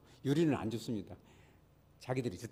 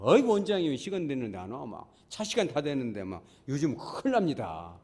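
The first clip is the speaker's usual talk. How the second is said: louder, exasperated imitation of waiting patients; complaining patient; 5 dB louder than usual. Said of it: "환자들이 뭐라고 그래요".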